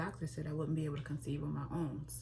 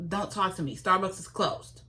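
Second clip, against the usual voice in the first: mock tearful outburst; 3 semitones higher, 6 dB louder than usual. Crying over closed Starbucks.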